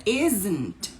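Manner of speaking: slow, drawn-out "isn't"; "not" shrunk onto "is"; contracted "isn't". Shown as a demonstration. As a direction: model the contraction "isn't" slowly. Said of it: "quando contrai, vira".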